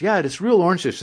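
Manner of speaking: high-pitched mom comeback; insisting mother. Retold or imitated. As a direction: mimic a mother insisting to her child. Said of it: "She goes".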